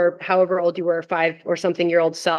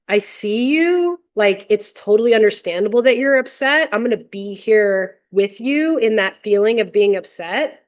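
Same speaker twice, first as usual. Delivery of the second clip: reassuring parent. Retold or imitated. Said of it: "and say".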